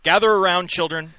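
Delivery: put-on high, loud storybook elder calling kids in; wise elder storyteller. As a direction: summon the children like an old storyteller.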